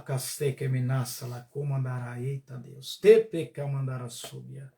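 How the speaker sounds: slow, low murmured tongues; speaking in tongues. Acted. Preacher on a live stream praying in tongues, low and slow.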